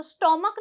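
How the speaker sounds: स्टमक with an o sound, stomuck; wrong pronunciation. Shown as a demonstration. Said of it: "ओ की sound पे बहुत ज्यादा जोर देते हैं". (गलत उच्चारण स्टमक, ओ के साथ)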